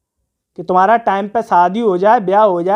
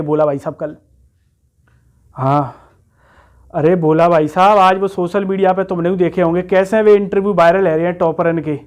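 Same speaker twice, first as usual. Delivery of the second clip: lightly voiced rustic candidate, pitched lower; rustic job candidate; 4 semitones lower than usual. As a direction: play an eager village lad with a lower voice. Plays rustic candidate replying to adviser.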